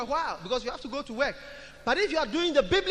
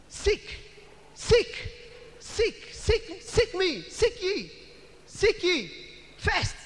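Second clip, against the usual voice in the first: rising meditation; 6 semitones higher, much slower than usual. Shown as a demonstration. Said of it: "begin to say it to yourself".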